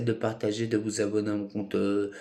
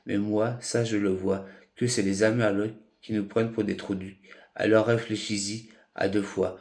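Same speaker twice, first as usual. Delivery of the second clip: measured, accusing poetry recital; deliberate slam-poetry cadence; spoken-word poem. Acted. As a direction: declaim it phrase by phrase with short breaks.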